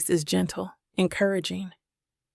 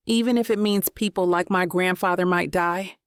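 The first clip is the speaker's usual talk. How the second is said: voice cracking. Acted. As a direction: voice cracking with held-back tears. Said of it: "my voice cracking".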